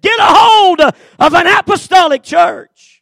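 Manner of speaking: high, loud cry for help, slowed down; retold scream. Frantic husband shouting for help between prayers, loud and high. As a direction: shout it out like a desperate man. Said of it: "uh, and screaming".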